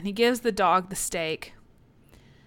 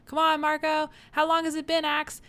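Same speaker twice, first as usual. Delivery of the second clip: mock urging; 8 semitones higher than usual. Urging an unconscious friend, retold.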